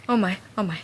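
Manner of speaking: breathless whisper of disbelief. Real, not acted. Reader hitting the book's big moment, whispering in shock. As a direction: drop to a whisper, stunned.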